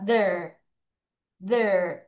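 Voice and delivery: There as "ther", the isolated end of weather; low, falling There with a voiced TH; syllable demo. Shown as a demonstration. Teacher models the second half for pupils, There said low as "ther". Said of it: "T H E R 발음할게요".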